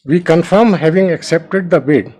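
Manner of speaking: slow, careful reading. Real, not acted. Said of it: "just go a little bit slowly".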